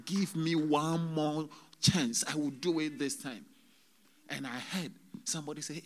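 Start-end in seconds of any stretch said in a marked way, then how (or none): 0.1-3.4 retold pleading. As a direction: beg earnestly, stretching the words. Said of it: "pleading and saying".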